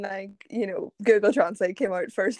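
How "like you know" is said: soft unvoiced like, you know; whispered aside. Real, not acted. Friend hinting at the night, whispering aside. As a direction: drop to a whisper for the hint. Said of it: "aside whisper".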